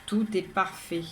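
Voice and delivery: measured, even poem reading with pauses between lines; poem recitation. Acted. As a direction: recite it line by line, evenly. Second reading of own poem.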